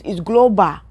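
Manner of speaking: "global" ending in an open "-bah", African accent. Shown as a demonstration. Speaker explaining "global" to African listeners, African accent. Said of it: "If you are African".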